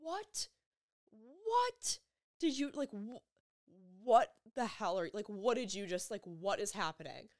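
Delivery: high-pitched disbelief easing downward; retold screaming. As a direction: re-enact shocked questions, starting high then settling. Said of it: "I start screaming".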